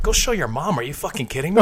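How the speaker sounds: mildly mock-outraged comeback; retold disbelief. Answering the owner's dare about mom, mild disbelief.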